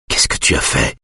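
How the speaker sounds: low, hushed man's question; speaking through fingers. A narrator's reading. Husband questions wife through his fingers, low and hushed. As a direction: sink the pitch, half-covered mouth. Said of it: "parle entre les doigts".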